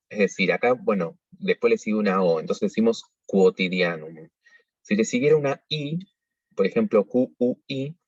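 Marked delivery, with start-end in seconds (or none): 3.3-4.3 quotidianum con cu sonora; u pronunciada. Shown as a demonstration. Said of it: "siempre pronunciamos esa U". (quotidianum con cu-o clara)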